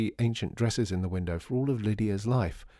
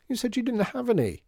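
tearful complaint; 13 semitones higher than usual. A narrator's reading. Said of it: "complained Lydia, suddenly feeling tearful".

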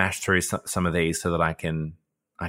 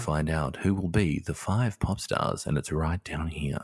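local newsreader; 3 semitones lower, 5 dB quieter than usual. Shown as a demonstration. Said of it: "I sound like a local newsreader".

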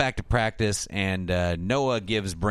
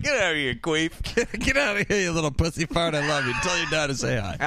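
mock coach yell; 7 semitones higher than usual. Voicing an angry coach in retold scene.

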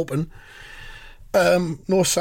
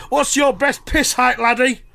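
higher, Welsh-lilting question; Welsh-tinged Corbyn voice; 7 semitones higher than usual. Retold or imitated. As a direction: quiz him with a Welsh lilt. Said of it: "It was Neil Kinnock".

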